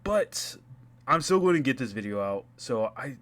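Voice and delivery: helium voice through a glitchy mic; chipmunk voice. Real, not acted. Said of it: "yeah, I sound like a chipmunk".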